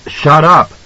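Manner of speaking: high, sudden cut-in; angry interruption. A narrator's reading. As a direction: cut her off hard.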